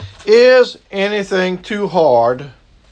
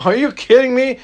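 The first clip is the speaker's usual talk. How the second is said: higher, scoffing disbelief; mock disbelief, pitched up; incredulous Sarah; 4 semitones higher than usual. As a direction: play Sarah laughing off God's promise. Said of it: "Sarah even thought it was laughable".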